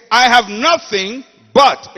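loud and slow, leaning on but; loud slow preaching; emphatic preaching. Shown as a demonstration. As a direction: hammer the word but. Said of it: "So you say".

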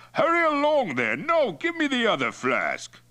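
loud, high, demanding chief; impatient. A narrator's reading. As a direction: hurry him up, pitch jumping high. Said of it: "Toktai grew impatient".

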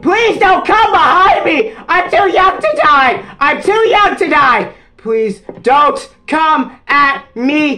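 high frightened whining pleas; trembling whiny yelps. Real, not acted. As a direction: whine and plead, terrified. Pleading with chasing enemy.

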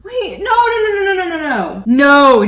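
high, loud rapid string of protests; panicked. Real, not acted. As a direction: panic as it goes wrong before your eyes. Paint starts dripping.

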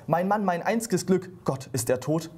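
a hammed-up shriek, high at first, then sinking; wife finding her husband collapsed, crying out in mock alarm; mock scream. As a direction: play the wife's alarm, not too much. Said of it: "und schreit".

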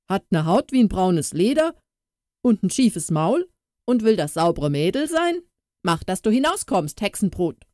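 coarse mocking cook's voice; insulting cook. Cook driving Katrin out, scornful rough mocking. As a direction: sneer at the ugly girl.

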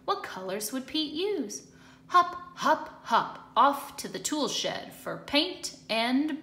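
lively storybook narration with rising and falling tune; reading to children. A narrator's reading. Teacher reading aloud to young children, lively storybook voice. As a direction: read it brightly to a class of kids. Reads picture book aloud.

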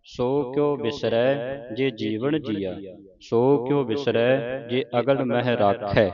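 slow, drawn-out reading of verse; scripture recitation. Acted. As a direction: recite it slowly, word by word. (ਧੀਮਾ ਗੁਰਬਾਣੀ ਪਾਠ)

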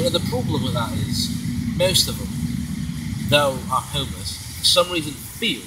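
put-on character speaking in an affected British accent. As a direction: hold a mock British voice. Put-on British character voice held throughout.

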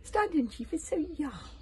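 high witchy voice with menace; grim witch. A narrator's reading. Witch warning about the young chief, grimly. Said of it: "she said grimly".

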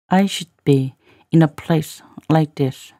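pauses after "I should be" and "place"; careful model reading for learners. Shown as a demonstration. Teacher repeats line in slow chunks.

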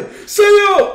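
sudden high yell of disbelief; real stunned outburst; shocked shout. Real, not acted. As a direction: cry out the name in shock. Shocked cry at the play.

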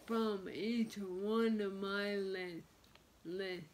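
lisping through a retainer; words slurred by a retainer; wearing a retainer. Real, not acted. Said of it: "I have my retainers in, so I'm sorry if I have a list".

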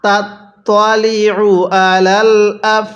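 slow, drawn-out syllables; slow recitation demo. Shown as a demonstration. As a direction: chant each syllable for learners. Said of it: "কিভাবে শিখব?".

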